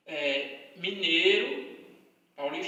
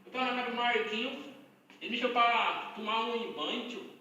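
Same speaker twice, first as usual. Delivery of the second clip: lightly put-on Minas Gerais accent, rising endings; mock mineiro accent with a tagged-on "tio"; imitated mineiro accent. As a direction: mimic a mineiro telling a story. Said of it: "É meio assim".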